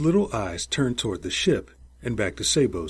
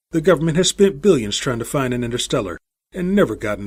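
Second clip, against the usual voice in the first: heated tirade; 4 semitones higher, 6 dB louder, faster than usual. Acted. Captain's heated tirade to the crew.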